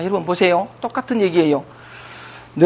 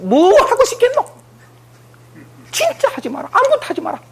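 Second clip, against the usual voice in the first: raised, high-pitched plea to stop; high coaxing counsel. Retold or imitated. Speaker to the young teacher, a high coaxing plea.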